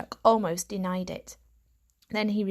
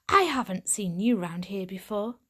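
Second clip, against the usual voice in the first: gruff. Acted. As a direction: say it gruff and suspicious. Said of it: "she said gruffily".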